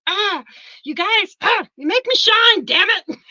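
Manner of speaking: fighting back tears of pride, bursting out; overwhelmed teacher near tears, cheering her students; choked-up pride. Real, not acted. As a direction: voice rising high and loud as emotion breaks through.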